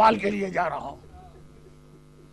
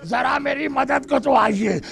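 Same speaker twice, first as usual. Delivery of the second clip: calling out to father. Retold or imitated. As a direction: stretch the first word into a crying call for help. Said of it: "آواز دیتا ہے".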